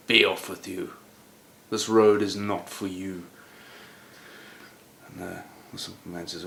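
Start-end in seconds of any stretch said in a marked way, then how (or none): 0.1-3.3 scornful knight. Acted. Knight dismisses the simple man.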